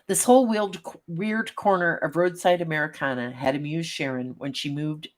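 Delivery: steady storyteller read; story narration. A narrator's reading. Reads story aloud.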